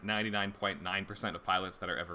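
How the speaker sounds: talking through hiccups. Real, not acted. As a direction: hiccups breaking into the words. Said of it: "excuse me, I have the hiccups".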